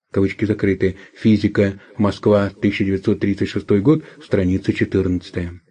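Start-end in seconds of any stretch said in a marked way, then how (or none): 0.1-1.0 dictating. Real, not acted. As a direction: drop the voice to close the quote. Reads out quote marks aloud. (диктовка вполголоса)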